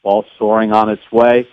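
measured, lightly hushed golf call; golf commentator. Pretend. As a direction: call the shot like a Masters broadcaster. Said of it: "I just wanna hear you do me in the golf voice".

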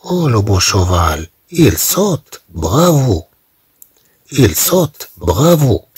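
encouraging cheer. Shown as a demonstration. Teacher showing students how to cheer, encouraging. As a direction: cheer the horse on like a proud teacher. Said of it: "تشجيع".

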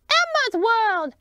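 slow, beaming show-title announcement; overbright kids party host. Acted.

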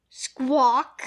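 very loud parrot squawk; parrot screech. A narrator's reading. Polly waking under Jake's hat, loud screech. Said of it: "Polly woke up with a screech".

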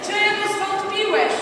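slow, high, loud prompt; Jesus questioning Peter. Acted. Leader prompting the boy with Jesus' words, slow loud question. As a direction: stretch the question out and project it. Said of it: "Jezus natychmiast wyciąga Piotra i mówi".

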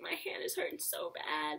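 whispered inner voice, half-joking; mock confession under the breath. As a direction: whisper the secret truth to yourself. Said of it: "But deep down in me".

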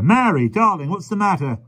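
high-pitched anxious plea; alarmed cry. A narrator's reading. Carrier asking his stricken wife, alarmed cry. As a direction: call out in loving alarm. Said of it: "cried the carrier".

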